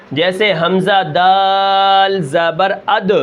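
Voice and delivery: slow drill of حمزہ دال زبر اد with a bouncing echo on the د of اد; qalqala bounce. Shown as a demonstration. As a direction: spell it slowly and shake the final دال. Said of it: "اس کو ہم قلقلہ کر کے پڑھیں گے". (قلقلہ کے ساتھ آہستہ تلاوت)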